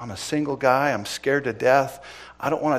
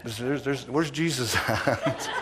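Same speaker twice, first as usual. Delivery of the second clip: laughing mock question; slower than usual. Mocking the bad guy, laughing.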